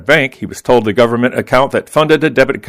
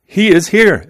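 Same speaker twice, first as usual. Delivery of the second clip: high, drawn-out mild mock cry of joy; mock excited scream; 9 semitones higher, 3 dB louder, slower than usual. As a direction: stretch it out high like an overjoyed mom, without really screaming. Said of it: "she starts screaming like".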